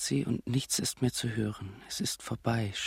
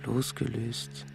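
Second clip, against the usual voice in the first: dreamy whisper; 4 dB quieter, slower than usual. Acted. Dreamy floating image.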